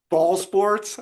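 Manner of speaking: echoing the baffled ball sports line; lightly mocking the shop owner's disdain; quoting with scorn. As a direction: repeat it as a dismissive question. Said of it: "I always think about that".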